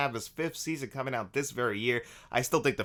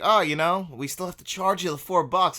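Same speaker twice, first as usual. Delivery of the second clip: higher, louder mock-polite booth attendant; imitated smiling politeness; 6 semitones higher, 4 dB louder than usual. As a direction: say it with a polite smile. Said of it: "and he's smiling".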